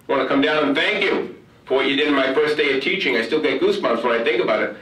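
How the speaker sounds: a hint of the eager new teacher thanking her boss; young teacher's voice. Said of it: "she says".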